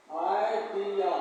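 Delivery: आइडिया said very slowly, ai-di-ya; slow teaching pronunciation of आइडिया; slow sounding out. Shown as a demonstration. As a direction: draw out आइडिया syllable by syllable. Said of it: "teacher sounds out the word".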